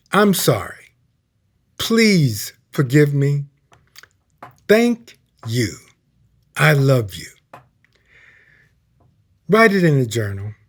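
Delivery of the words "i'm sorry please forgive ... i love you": prayer recited. Shown as a demonstration. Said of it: "the prayer is simply this".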